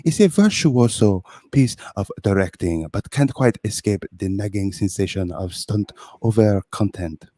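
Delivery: French guest Pierre. Acted. Guest reading the review to the host, in a mock French accent. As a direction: read the magazine blurb as a pompous Frenchman. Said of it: "This is, uh, Pierre".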